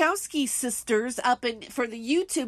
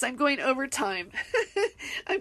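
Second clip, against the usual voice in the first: laughing. Real, not acted. Laughs at running late.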